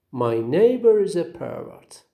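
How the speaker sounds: "pervert" said PER-vert, falling off after the first syllable; stress on first syllable. Shown as a demonstration. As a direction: noun "pervert", weight on PER. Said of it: "have the first syllable as the stressed".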